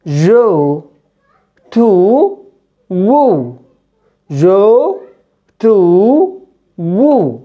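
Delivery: جو said with a rounded "o" glide; English oa vowel. Shown as a demonstration. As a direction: draw out the "o" in جو، تو، وو. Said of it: "هنا O". (نطق O إنجليزية ممدودة)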